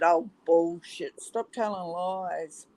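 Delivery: slow, drawn-out scoffing disbelief; retold disbelief. Retelling own reply to son's friend's call, slow disbelief. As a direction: imitate dismissing a tall story, slowly. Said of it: "I said".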